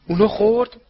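loud, high burst of curiosity; eager question. A narrator's reading. Fred asks Harry whether the prank worked, eager and loud. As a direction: ask it eagerly, pitched right up.

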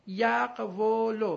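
یقولو slowly as yaq-wu-lu, silent vowel after q; syllable-by-syllable demo. Shown as a demonstration. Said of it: "نگاه کنید".

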